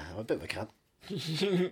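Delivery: slow breathy murmur. Pretend. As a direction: breathe the words out slowly. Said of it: "you got that breathy voice".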